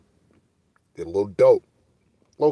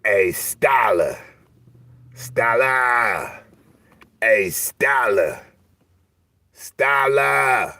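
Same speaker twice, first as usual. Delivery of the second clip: long, drawn-out calling yell; imitated yell upstairs; 4 semitones higher, much slower than usual. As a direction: holler a name up to an upstairs window, stretching it out. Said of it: "to yell upstairs".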